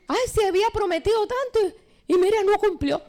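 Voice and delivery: high-pitched, put-upon mock lament; exasperated complaint. Voters grumbling about a politician's broken promises, exasperated complaint.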